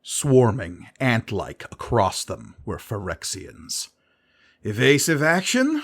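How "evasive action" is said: higher urgent question; voiced as Sisay, urgent. A narrator's reading. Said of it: "Sisay asked".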